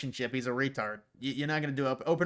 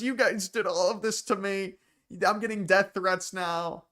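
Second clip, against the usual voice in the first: mock victim, pitched up; higher-voiced mock plea for sympathy; playing the victim; 5 semitones higher than usual. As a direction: imitate a self-pitying complaint, slowing at the end. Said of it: "she tries to play the victim".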